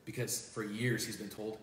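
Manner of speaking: choked-up and soft; holding back tears. Real, not acted. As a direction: fight back tears as you tell it. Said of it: "I'm not holding back tears".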